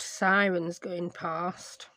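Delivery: PAST in a posh accent, with a long "ah". Real, not acted. Vlogger slipping while mentioning sirens, posh long-vowel PAST. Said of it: "why I got all posh".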